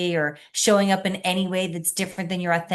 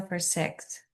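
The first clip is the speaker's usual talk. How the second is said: guided meditation. Acted. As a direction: lead them gently into their breath. Leads a breathing meditation.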